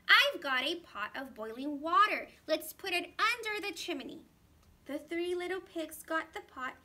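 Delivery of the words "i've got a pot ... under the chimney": urgent. Acted. Third pig urgent plan.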